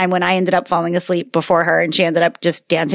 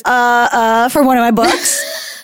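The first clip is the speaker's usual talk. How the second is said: put-on whiny toddler; slower than usual. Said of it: "And she goes".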